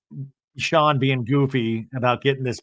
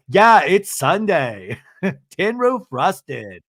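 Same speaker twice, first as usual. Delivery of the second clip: loud, drawn-out mock backup; Lisa, butting in; 3 semitones higher, 3 dB louder, much slower than usual. Lisa backing Meredith up, loud slow interjection. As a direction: chime in slowly and forcefully, imitating a friend. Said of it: "Lisa butts in and goes".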